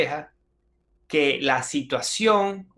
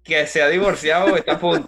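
laughing; 7 dB louder, faster than usual. Real, not acted. Joking answer about divorce lesson.

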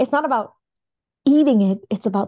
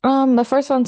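crunching while talking; mouth full; 5 semitones higher, 4 dB louder than usual. Real, not acted. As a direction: speak through a crunchy bite. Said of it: "sorry about the crunch".

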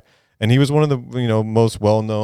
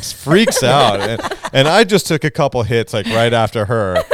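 laughing while telling; 2 semitones higher than usual. Real, not acted. Laughs while retelling the story.

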